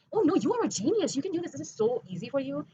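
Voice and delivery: high, sing-song imitation of people flattering her; mock gushing praise. Imitating people telling her she's a genius, in gushing praise. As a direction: parrot their gushing reassurance, pitched high.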